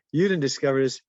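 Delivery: mock indignant claim of being first; retold protest. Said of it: "She, she, she said".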